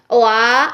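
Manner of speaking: او آ with lips rounding before the aa; wrong rounded aa. Shown as a demonstration. Teacher showing the wrong rounded vowel. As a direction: slide from o into aa as the mistake. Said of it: "یہ، یہ غلط ہے".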